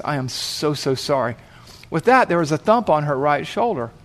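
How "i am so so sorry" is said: soft, lower-pitched sincere apology; gentle apology. Retold or imitated. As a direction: apologize tenderly, letting the voice sink. Paramedic apologizing to hurting biker.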